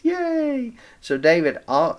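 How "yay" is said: cheering yay. Pretend. Cheering Abigail's yes.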